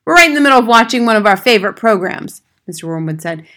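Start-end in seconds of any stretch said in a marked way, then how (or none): 0.1-2.4 loud, quick, higher-pitched complaint; annoyed father. Acted. Father to teacher interrupting his favorite program, annoyed. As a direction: push the caller away with loud irritation.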